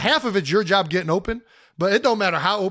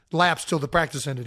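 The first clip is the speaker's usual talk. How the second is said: normal talking voice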